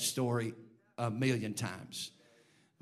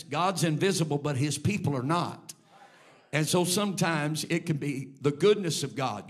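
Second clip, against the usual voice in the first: louder preached build; preaching; 4 dB louder than usual. Acted. Preacher telling the church about God's goodness, loud preaching. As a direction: press the point home, preacher style.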